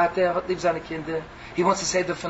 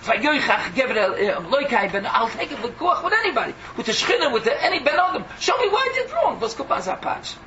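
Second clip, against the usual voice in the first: higher, pressing, raised cry of protest; Iyov demanding a reckoning; 4 semitones higher than usual. Acted. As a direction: demand answers from heaven, voice rising. Iyov challenges anyone.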